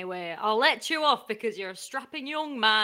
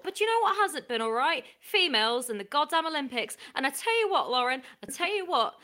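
grumpy boomer. Acted. Sports reporter grumbling to the studio about today's youth, mild boomer voice. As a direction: grumble like a lightly played old boomer. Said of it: "a boomer reflecting on the good old days".

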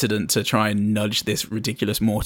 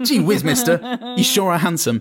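put-on wholesome 1950s kid; 8 semitones higher than usual. Joking about old-fashioned women.

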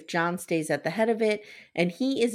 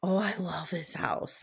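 whispered; 8 dB quieter than usual. Real, not acted. Gushing over the house.

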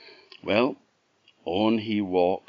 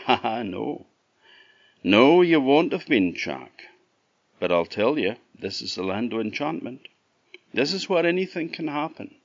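chuckling robin; 5 semitones higher than usual. Acted. Robin laughing at Jack's wonder, high amused voice. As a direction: laugh kindly at his wonder.

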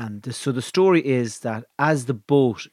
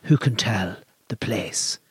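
poem recitation; 3 semitones lower than usual. Acted. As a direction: intone it like an ancient bard. Reciting ancient Irish poem.

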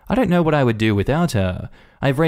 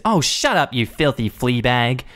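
mild mock screech; 3 semitones higher than usual. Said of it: "she screeches at the dog".

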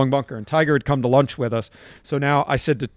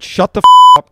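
sudden yell, much higher and louder; shouting Tiger down mid-lesson; mock outburst; 14 dB louder, faster than usual. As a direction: cut him off with a shout. Retold cutting Tiger off.

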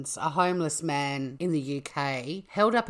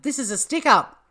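high, loud stick-up yell; retold hold-up shout, loud and high; mock robber shout; 9 semitones higher, 7 dB louder than usual. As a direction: bark it like a hammed-up bank robber. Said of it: "and shouted".

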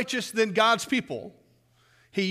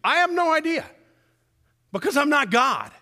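emphatic exclamation; 8 semitones higher, 5 dB louder than usual. Real, not acted. Preacher exclaims about war.

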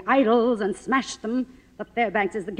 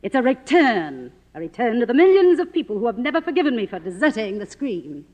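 louder, faster, swelling with pride; grandiose; 4 semitones higher, 4 dB louder than usual. Acted. Silent star proclaiming her return, grand and fervent.

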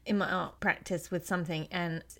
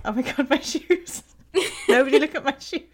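panicked inner voice; 5 semitones higher, 7 dB louder than usual. Retold or imitated. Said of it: "in my head, I'm like".

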